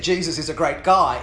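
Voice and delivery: clearly spoken example message. Acted. Jackson speaking openly to Anita, clear voice. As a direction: say it plainly and distinctly. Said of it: "in a clear voice".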